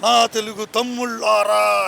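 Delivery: slow, drawn-out call to the crowd; lightly imitated old-style film hero address; NTR rally call. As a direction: stretch it out like a stage orator hailing his brothers. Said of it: "ఇలా చెప్పాడు".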